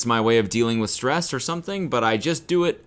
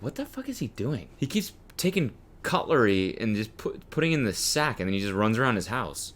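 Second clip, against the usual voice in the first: hushed, puzzled onlooker; baffled neighbor; 6 dB quieter than usual. Acted. Neighbor peering through the window, hushed bafflement. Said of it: "imagine their neighbors, like, looking through the window".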